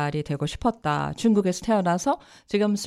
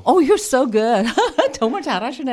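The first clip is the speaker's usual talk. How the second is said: delighted praise; impressed; 5 semitones higher, 3 dB louder than usual. Real, not acted. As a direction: sound pleasantly surprised. Host praises guest's Korean. (감탄하며 칭찬)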